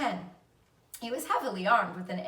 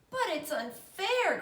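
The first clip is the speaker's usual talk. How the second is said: high, slow tearful wail; crying protest; 9 semitones higher, slower than usual. A narrator's reading. Fern to her father, slow tearful wail. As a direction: drag out the complaint like a hurt child. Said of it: "cried Fern".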